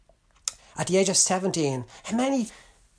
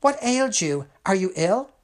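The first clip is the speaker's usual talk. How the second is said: higher, louder, startled mother's cry; surprised exclaim; 5 semitones higher, 4 dB louder than usual. Acted. Mother finds her son weeping in alley, surprised and alarmed. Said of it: "His surprised mother exclaimed".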